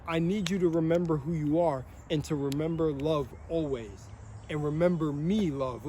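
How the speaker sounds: a goddess tenderly telling him to remember love; tender loving voice. Retold or imitated. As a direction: speak it like a loving guide reassuring someone. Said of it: "that's how she's speaking to me".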